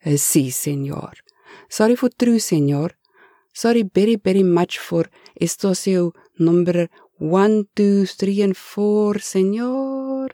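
lightly voiced Spanish-accented Eustacio; a hint of a nervous Spanish-accented servant, pleading. Eustacio apologizes to Ulrich.

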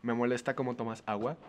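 measured, softly put complaint; even, composed request; calm complaint. Pretend. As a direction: state the annoyance without getting angry. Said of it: "expresar las cosas que me molestan sin enojarme".

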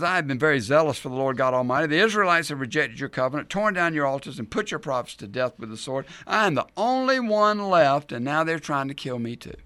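self-pitying complaint, swelling on being alone; mock whining. Elijah complaining to God he is left alone, mock whining. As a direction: recite the grievances with a touch of whine. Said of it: "He's whining".

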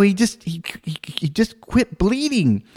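stammering mock uncertainty; acted hesitant bluff; blank, flustered. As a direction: grope haltingly for an explanation, a little high. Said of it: "I'm blank".

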